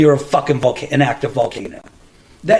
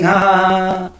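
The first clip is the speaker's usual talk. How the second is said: mock "ha ha" laugh; imitated laughter; 3 semitones higher, slower than usual. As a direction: imitate laughing without really laughing. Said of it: "And we were laughing".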